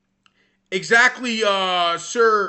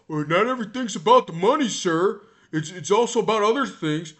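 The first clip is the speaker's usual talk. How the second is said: mocking quote; 2 semitones lower than usual. Mocking a player's excuse.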